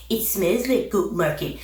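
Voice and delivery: imitating a put-on Nigerian accent; fake Nigerian accent. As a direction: mimic someone badly faking a Nigerian accent. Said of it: "Like, what is this accent?".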